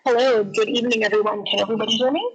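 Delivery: glitchy, broken-up call audio; garbled connection. Real, not acted. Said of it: "you sound a little garbly there".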